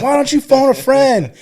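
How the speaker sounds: high, loud mock deputy; yelling female deputy. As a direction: imitate a woman DI taunting a recruit. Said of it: "Like, yelling at him".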